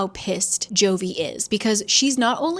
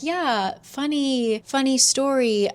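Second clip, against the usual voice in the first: amused awkwardness; 4 semitones higher, slower than usual. Retold or imitated. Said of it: "Jovi just laughs and she's like".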